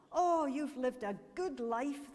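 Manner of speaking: joyful exclamation. A narrator's reading. Angels greet the old man at heaven's gates, joyful exclamation. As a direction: exclaim it as a glad welcome. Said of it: "The angels greeted him joyfully".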